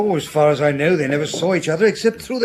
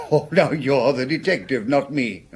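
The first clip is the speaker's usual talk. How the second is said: chuckling through the words into a breathy laugh; laughing deflection; 3 semitones lower than usual. Acted. Doctor deflecting the inspector's question, chuckling.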